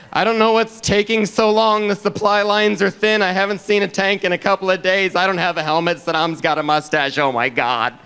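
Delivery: high worried voice sinking to dread; nervous reporter. Retold or imitated. CNN field reporter bringing viewers down, nervous worried report. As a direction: start high and fretful, sink gradually. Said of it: "field reporters were all nervous".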